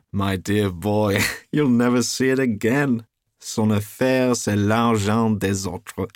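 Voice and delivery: loud, slow, laughing through it; roaring with laughter at his friend. A narrator's reading. Trevor laughs loudly at Hughie's blunder. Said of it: "burst into a roar of laughter".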